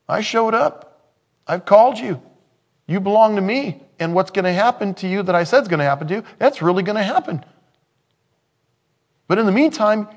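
God speaking, high and loud with passion; voicing God. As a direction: preach God's own words to Abram, lifted up high. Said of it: "God just said".

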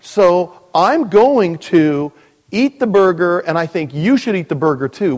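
a hammed-up know-it-all; cocky believer. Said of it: "there are those that just said".

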